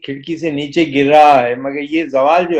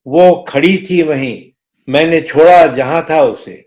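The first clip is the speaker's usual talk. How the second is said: stately nazm recitation. Acted. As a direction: recite the poem with gravity.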